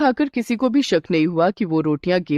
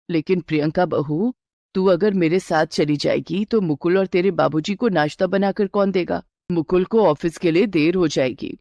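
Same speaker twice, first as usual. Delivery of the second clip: a lightly lowered, steady mother-in-law. Acted. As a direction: reassure the bride as a knowing elder. Mother-in-law deflects bride. (हल्की सी नीची आवाज़ में सास)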